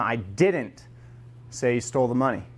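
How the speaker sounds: I said low and heavy; the denial resting on I; stress on I. Shown as a demonstration. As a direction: lean on the word I.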